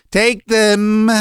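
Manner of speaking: high, trembling outburst of fury; father beside himself with anger; shaking rage. A narrator's reading. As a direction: thrust it out in a high, furious voice. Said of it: "he muttered, shaking all over".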